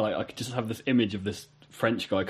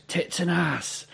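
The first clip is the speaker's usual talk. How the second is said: slow spelled out; 4 semitones higher, 4 dB quieter, much slower than usual. Retold or imitated. Director spells out T N A.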